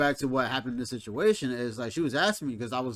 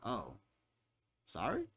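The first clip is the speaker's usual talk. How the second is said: small, much softer voice; sheepish apology; 4 semitones lower, 13 dB quieter, slower than usual. Retold or imitated. Retelling being blamed for her dream, sheepishly quiet. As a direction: drop to a hesitant, quiet apology.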